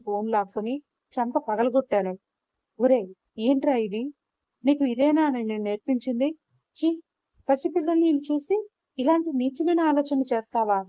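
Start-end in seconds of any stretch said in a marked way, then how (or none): 2.8-10.8 mild retold scolding, a touch raised; half-voiced angry mother scolding her son; scolding shout. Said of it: "అని వాడిపైన అరిచాను". (కొడుకుని తిట్టే తల్లి, తేలికపాటి కోపంతో)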